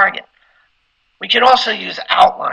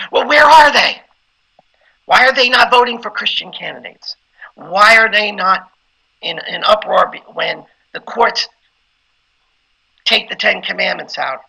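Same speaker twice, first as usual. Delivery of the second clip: emotional preaching. Shown as a demonstration. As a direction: stir the congregation with a little rage. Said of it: "I could get emotional in that way".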